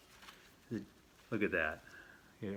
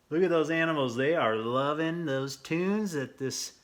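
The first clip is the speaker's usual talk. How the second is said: delighted; 7 semitones higher, 7 dB louder than usual. Real, not acted. Delighted at the animals picture.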